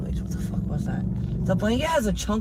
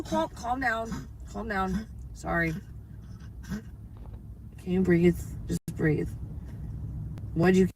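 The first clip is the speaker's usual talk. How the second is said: softly, slowly settle a startled pet; soft, slow reassurance with falling pitch; soothing; 2 semitones lower, 4 dB quieter, slower than usual. Real, not acted. Owner calming a startled dog, soothing.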